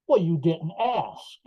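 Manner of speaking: slow, stretched-out sarcastic retort; mock sarcastic. Superintendent answering the fired employee from the stand, sarcastic. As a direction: imitate a snide reply, drawing the words out. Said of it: "real, real sarcastically, she said".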